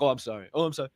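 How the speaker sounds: mock apologetic. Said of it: "Take it out of your rhetoric".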